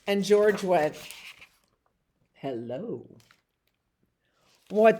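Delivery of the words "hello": puppy hello. Acted. George says hello.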